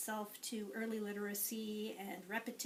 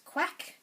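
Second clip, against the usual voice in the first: duck quack; 7 semitones higher, 6 dB louder than usual. Shown as a demonstration. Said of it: "and the duck says".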